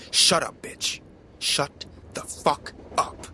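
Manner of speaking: father bellows at the woman to shut up; angry yell. A narrator's reading. Father yelling at the screaming neighbour, furious. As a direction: yell it down at her like an angry god. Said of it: "he yelled, his voice like that of an angry god".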